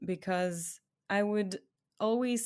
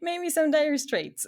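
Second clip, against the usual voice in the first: laughing; 10 semitones higher, 7 dB louder than usual. Real, not acted. Jokes a band was heaviest.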